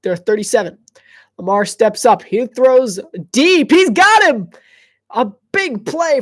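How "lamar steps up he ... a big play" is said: building to a loud, high shout; rising from loud to a roaring call as the pass lands; excited play call. Real, not acted. Big deep throw call.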